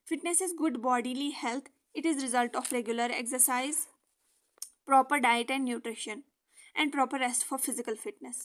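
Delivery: very slow, word by word, for note-taking; slow dictation. Shown as a demonstration. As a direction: read it out slowly so they can write. Dictating definition slowly to students.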